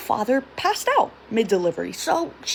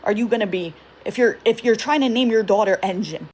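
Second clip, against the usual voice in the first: mom yelling. Retold or imitated. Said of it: "So my mom starts yelling at him".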